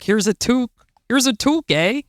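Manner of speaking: put-on light Canadian accent, rising eh; a touch of Canadian, ending on eh. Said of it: "I'm trying to do my Canadian accent here".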